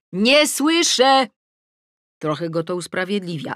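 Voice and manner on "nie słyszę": loud, high, drawn-out call; shout. A narrator's reading. Adam calling back from the garden, shouting. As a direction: stretch the words out across the garden. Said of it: "I krzyczy".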